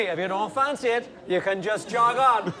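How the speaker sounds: a light Keano impression; imitating Keano. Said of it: "saying to me".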